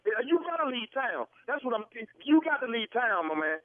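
real anger, insistent demands; irate. Real, not acted. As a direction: lay down an angry ultimatum. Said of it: "You too irate".

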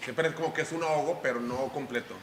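put-on low, soft, choking old man voice. Shown as a demonstration. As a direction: sound half out of breath and senile. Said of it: "Haz la voz como viejo senil".

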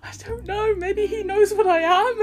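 high laughing mock answer; laughing retort. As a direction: toss it off through a laugh. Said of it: "And I'm like".

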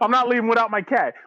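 high whiny mock voice of a stubborn homeowner; mocking whiny resident. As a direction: sneer it like a spoiled homeowner.

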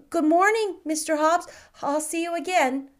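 put-on a curious small boy, bright and keen; little boy asking. A narrator's reading. Boy asks the shopkeeper about marquises, high and eager. Cedric says goodbye.

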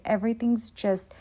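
ordinary talk, nothing marked

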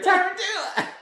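very high exclaimed Tarantula; mimicked mispronunciation. Teasing a friend about her mispronunciation, high and loud. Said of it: "You were like".

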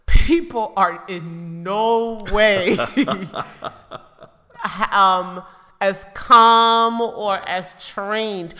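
slow laughing emphasis. Real, not acted. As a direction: laugh through the words. Laughing while stressing point.

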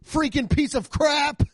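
high, drawn-out tame cursing; mock angry outburst. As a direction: squeal out prim frustration, slowly. Christian boss curses after employee leaves.

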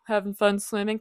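a hint of sarcastic Jack. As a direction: tease her dryly as the sarcastic rescuer. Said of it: "he's very sarcastic".

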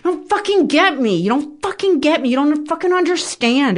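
high-pitched mock yell, fucking hit hard; a toddler-level tantrum, pitched high; retold frustrated yelling. Wife recalling tantrums at husband, high mock yell. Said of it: "toddler level of frustration where I would scream".

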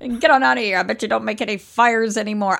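like a 1920s newscaster or pirate, hammed up; old-timey jailer accent. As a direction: play a gruff jailer booting her out with a put-on accent. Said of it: "I don't know where that accent".

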